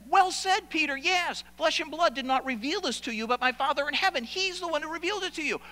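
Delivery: high, excited congratulation; delighted praise. Acted. Jesus congratulates Peter on his answer, elated.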